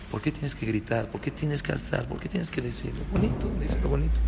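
gentle, hushed plea to say it nicely; spokojne, ciche napomnienie. Shown as a demonstration. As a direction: softly ask why shout. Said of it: "con una voz pacífica".

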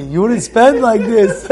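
laughing wife. Retold or imitated. Wife voiced accepting gift.

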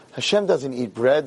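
slow, subdued, deflated admission; mildly acted dejection; broken. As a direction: pass on bad news, crushed. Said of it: "These two were tzubrachim".

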